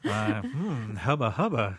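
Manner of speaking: lecherous hubba hubba; leering hubba hubba. Pretend. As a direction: ogle her with your voice. Playful flirting with wife.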